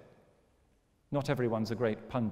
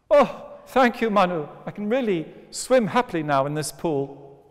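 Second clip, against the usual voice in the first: happy squeaky fish voice; 6 semitones higher, 8 dB louder than usual. Acted. Fish thanks Manu happily.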